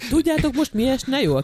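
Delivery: lightly voiced Ferenc, slow and laughing; a hint of a slow, amused Ferenc. Teasing a friend about the last wish, lightly voiced Ferenc. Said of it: "kérdezte Ferenc".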